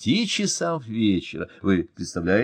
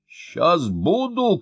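high, very slow, drawn-out shout; shouted promise; 8 semitones higher, 3 dB louder, much slower than usual. A narrator's reading. Official shouting to the fire chief on the phone, slow and loud. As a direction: bellow it down the phone. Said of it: "крикнул Мощин".

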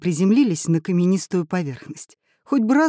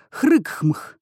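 caveman grunt; 5 semitones higher than usual. A narrator's reading. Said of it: "произнесла что-то типа".

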